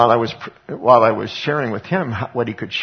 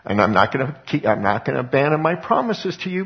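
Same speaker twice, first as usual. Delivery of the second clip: voicing God, rising; 6 semitones higher than usual. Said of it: "What God says is".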